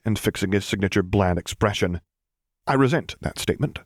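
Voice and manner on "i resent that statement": prim and higher, a touch huffy; primly. Acted. Captain answering the teasing general, said primly. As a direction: sniff it out with mild offended dignity. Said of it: "he informed them primly".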